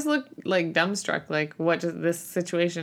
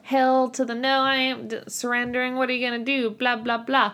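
mocking; 4 semitones higher than usual. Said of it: "he's like".

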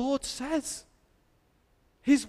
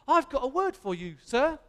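lightly put-on Cockney, pitched up; a hint of a cheeky Cockney kid; Cockney accent; 3 semitones higher than usual. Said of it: "Don't know why I did a Cockney accent".

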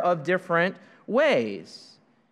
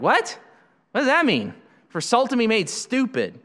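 higher, puzzled mock "What?"; imitating surprise; 5 semitones higher than usual. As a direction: play the baffled listener, pitch up. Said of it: "You're like".

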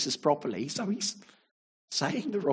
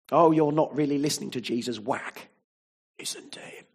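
harsh stick voice; 3 dB louder than usual. Retold or imitated. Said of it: "hear it like a big stick".

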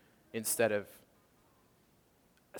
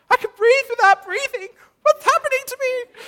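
awed wonder; 19 dB louder than usual. Retold or imitated. Overwhelmed during prayer, retold.

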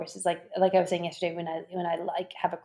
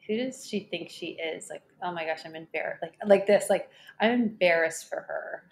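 a light hint of a snobby Southern California valley girl. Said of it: "snobby girl with a really strong Southern California accent".

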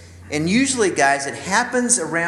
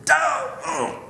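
mock sigh; 13 semitones higher than usual. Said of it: "Glenn will just go".

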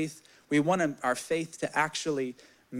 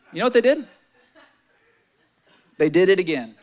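laughing; 2 semitones higher, 8 dB louder, faster than usual. Real, not acted. Building up the twist, laughing.

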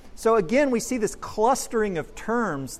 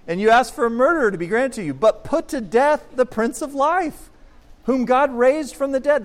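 louder, faster, higher proclamation; forceful scripture reading; 6 semitones higher, 6 dB louder than usual. Acted. Preacher proclaiming Peter's accusation to the crowd, forceful and loud. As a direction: declaim the verse at full force to the crowd.

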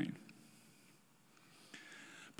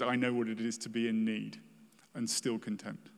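soft reading of the verse; 3 semitones lower, 6 dB quieter than usual. Real, not acted. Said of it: "when he says".

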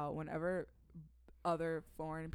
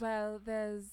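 tentative posh English attempt; hesitant, put-on posh English; posh English accent; 4 semitones higher than usual. Shown as a demonstration. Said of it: "So posh".

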